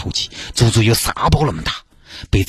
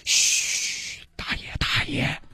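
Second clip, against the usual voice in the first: urgent hushed whisper; 9 dB quieter, much slower than usual. Acted. Girl hushing the grumpy old man, urgent whisper. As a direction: hush him so nobody hears.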